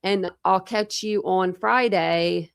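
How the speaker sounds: slow, drawn-out mimicry; spaced-out words, lightly mimicked; imitating her inflections. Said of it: "how did she say it".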